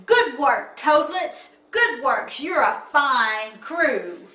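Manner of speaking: loud, lightly voiced captain; captain praising crew. Captain praising toadlets, loud hearty approval.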